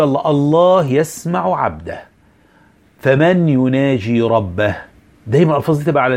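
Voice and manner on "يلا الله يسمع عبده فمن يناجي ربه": slow, gentle reminder; gentle coaxing to the student. Shown as a demonstration. Teacher gently urging a student before reciting. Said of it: "هنبدأ نقول له".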